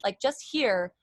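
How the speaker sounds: talking from the throat only. Shown as a demonstration. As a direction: drop the sound down and drag it. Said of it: "versus, like, down here".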